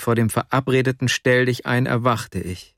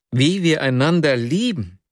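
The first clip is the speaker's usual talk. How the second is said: stunned outcry; 5 semitones higher than usual. A narrator's reading. Dreamer echoing Nastjenka's words back, crying out in disbelief. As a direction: echo her words back, higher and struck. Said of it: "rief ich aus".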